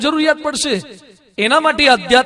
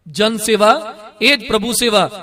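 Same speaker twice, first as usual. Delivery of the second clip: "જન સેવા", pause, then "એ જ પ્રભુ સેવા"; slow, deliberate slogan split at "એ જ"; slow repeat; slower than usual. Shown as a demonstration. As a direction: repeat it slowly, pausing after "સેવા" in "જન સેવા". Slogan repeated slowly for emphasis.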